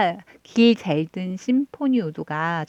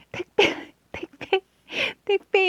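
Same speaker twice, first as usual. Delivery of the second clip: put-on much higher little-kid voice with a laugh; niece's answer; 13 semitones higher than usual. Niece naming dad's job, high childlike chirp.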